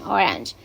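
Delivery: "orange" dropped down to finish; falling intonation. Shown as a demonstration. Teacher showing how the list ends, falling on "orange". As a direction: let "orange" fall. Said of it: "y baja".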